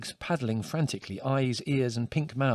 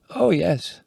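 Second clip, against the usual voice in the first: absently; 6 semitones higher, 6 dB louder than usual. A narrator's reading. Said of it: "she said absently".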